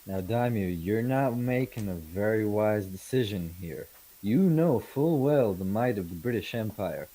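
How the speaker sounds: firm warning to a lord, mildly acted; a hint of a menacing envoy; lightly voiced merchant making threats. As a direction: warn the ruler with a touch of imperial confidence.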